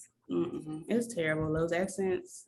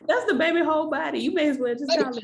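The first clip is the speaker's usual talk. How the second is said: laughing; 6 semitones higher, 5 dB louder than usual. Real, not acted. Still laughing about disease name.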